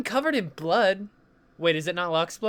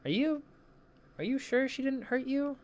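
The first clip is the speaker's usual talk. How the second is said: concerned; 8 semitones higher, 6 dB quieter than usual. Acted. Friend checks whether he is hurt.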